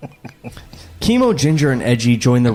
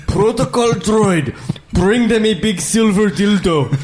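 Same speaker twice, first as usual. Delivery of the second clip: higher hammed-up alien accent; Trade Federation guys; 5 semitones higher than usual. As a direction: order grandly in a stilted foreign accent. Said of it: "like, the Trade Federation guys".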